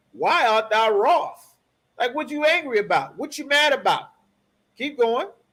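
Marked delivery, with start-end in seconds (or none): 0.2-1.5 genuinely questioning tone with rising intonation. Coaching a reader on the Lord's line to Cain: read like a question. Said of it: "You want to read it like a question".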